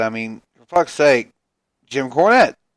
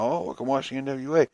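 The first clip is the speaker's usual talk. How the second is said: the same mock line, softer and trailing off; mock fan, softer; 2 semitones higher, 5 dB quieter than usual. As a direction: let the mock fan fade out. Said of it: "people are just like".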